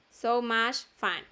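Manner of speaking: "so much fun" slowly, both U's as "ah". Shown as a demonstration. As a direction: model "much fun" as "mach fan", word by word. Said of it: "U entre dos consonantes se lee A". ("so much fun" despacio, con la U como A)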